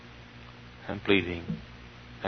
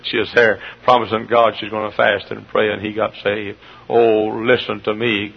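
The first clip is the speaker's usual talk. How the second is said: ordinary delivery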